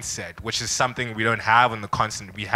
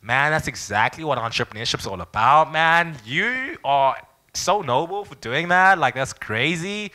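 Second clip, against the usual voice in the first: lightly put-on, gushing American accent, rising in pitch; 5 semitones higher than usual. Americans praising a young entrepreneur, lightly mocked gushing American accent. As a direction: imitate impressed Americans, stretching the praise with a hint of the accent. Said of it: "all American, they're like".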